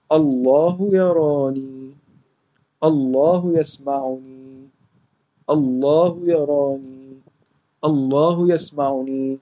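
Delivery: slow, drawn-out chant at moderate volume; medium-volume recitation. Shown as a demonstration. Teacher leading children in a repeat-after-me drill, medium voice. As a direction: say it slowly for all to repeat, long held syllables. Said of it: "بصوت متوسط كده".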